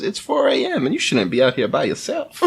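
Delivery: hammed-up kindly Southern bus driver; bad Southern accent. Host mocks the kindly old bus driver, bad Southern accent. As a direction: imitate a terrible Southern accent, lilting upward at the end. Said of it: "the worst Southern accent I've ever heard".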